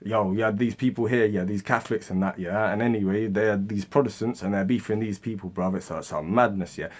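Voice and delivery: London street slang accent with mates. Shown as a demonstration. Explaining Catholics and Protestants to his mates, London slang accent. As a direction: put on casual bruv-to-bruv slang accent. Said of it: "When I talk with my mates".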